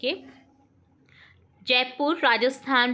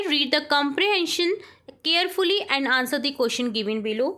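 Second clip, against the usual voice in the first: very slow, word by word dictation; much slower than usual. Shown as a demonstration. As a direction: read it out slowly for the class to write. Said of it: "teacher reads instruction". (धीमे-धीमे बोलकर लिखवाना)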